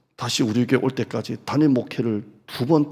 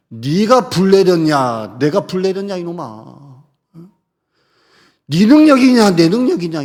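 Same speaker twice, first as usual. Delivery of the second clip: mock furious rebuke; 6 semitones higher, 8 dB louder than usual. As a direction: shout him down like an angry master. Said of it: "나는 그랬을 것 같아요".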